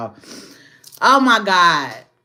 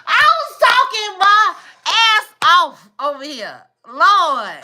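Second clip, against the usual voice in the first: laughing disbelief; 10 semitones higher, 4 dB louder, slower than usual. Real, not acted. Laughing at her muted stream.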